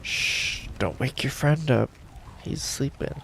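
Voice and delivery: hushed whisper, barely voiced. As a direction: whisper so the sleeper stays asleep. Sneaking past a sleeping guard.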